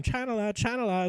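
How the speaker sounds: half-hearted yell of the name; mock scream. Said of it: "He just screamed".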